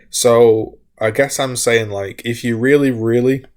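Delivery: hiccuping mid-sentence; hiccups. Real, not acted. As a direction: talk through the hiccups. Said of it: "God, I'm getting hiccups".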